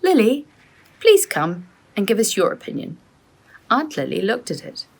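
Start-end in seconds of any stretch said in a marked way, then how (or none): 0.0-3.0 calling out. A narrator's reading. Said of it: "He called his wife".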